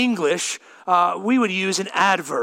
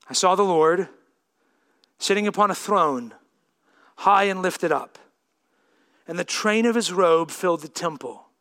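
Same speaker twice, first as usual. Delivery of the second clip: measured public reading of scripture; solemn Bible reading voice. Acted. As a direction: read the passage with weight.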